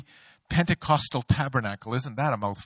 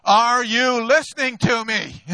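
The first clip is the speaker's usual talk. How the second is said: wife's reproach; 6 semitones higher, 4 dB louder than usual. Retold or imitated. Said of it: "my wife said to me".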